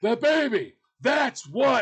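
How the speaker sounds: mock indignant punchline; slamming retort. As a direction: act her slamming him with it. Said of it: "then she slams me".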